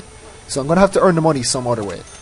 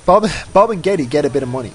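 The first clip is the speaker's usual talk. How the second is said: quick, slightly higher and tumbling; hurried slip; 4 semitones higher, 5 dB louder than usual. Real, not acted. Gamer tripping over his Sims' names, hurried. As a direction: rattle it off and trip over the name. Tongue slip, then said again.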